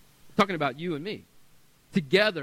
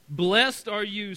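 excited praise; 4 semitones higher, 7 dB louder, slower than usual. Acted. Jesus praises Peter, exclamation noted.

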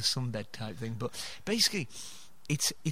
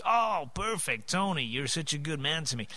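mimicked Canadian friend. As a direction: imitate an easygoing Canadian pal, pitched up. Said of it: "he was just like".

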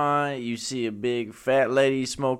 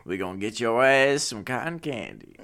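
comic mock Cajun promise; Cajun guy voice. Promising a prisoner carnival treats, mock Cajun guy voice. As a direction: play a Cajun guy riffing, half laughing. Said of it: "like, Cajun guy voice".

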